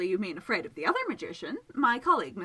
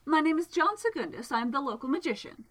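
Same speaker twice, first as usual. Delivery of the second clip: louder and higher, calling across the pond; 6 semitones higher, 4 dB louder than usual. A narrator's reading. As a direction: project the voice toward the water. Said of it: "he called out towards it".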